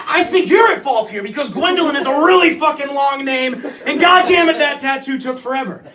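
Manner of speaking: worked-up comic griping; exasperated blame. Acted. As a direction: argue back, shifting the blame. Acted quarrel, blaming Gwendolyn.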